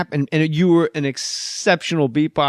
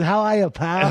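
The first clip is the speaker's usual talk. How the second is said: higher Buddy Hackett greeting; 4 semitones higher than usual. Retold or imitated. Buddy Hackett greeting the auditioner, light Hackett voice. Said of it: "Fucking Buddy Hackett walks out".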